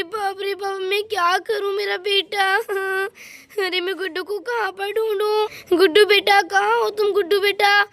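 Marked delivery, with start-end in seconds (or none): 5.8-7.8 put-on loud searching call to a lost child; mother calling her missing son loudly. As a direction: shout his name across the street.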